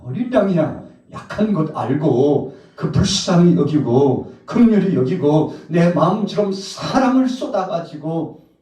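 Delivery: high, loud, slow impassioned plea; full-force preaching. Acted. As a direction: pour it out with fervour. (높고 크게 호소하는 열정적인 설교)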